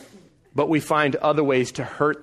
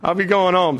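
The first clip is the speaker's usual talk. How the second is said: hurried goodbye; 5 semitones higher than usual. Retold or imitated. Husband rushing out of the conference, higher and hurried. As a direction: wrap up fast and leave. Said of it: "I'm like".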